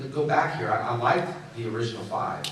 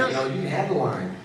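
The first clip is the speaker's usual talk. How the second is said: laughing surrender; 6 semitones higher than usual. Retold or imitated. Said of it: "I was like".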